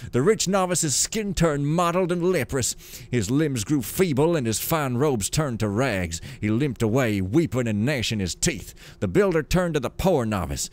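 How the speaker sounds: lively, sing-song storybook reading; story narration. A narrator's reading. Gamer reading lore aloud as a tale, storytelling voice. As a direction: read it like a grand old fable.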